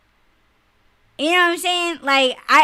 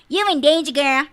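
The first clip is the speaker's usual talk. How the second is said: mock warning; 3 semitones higher, 5 dB louder than usual. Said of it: "And it's like".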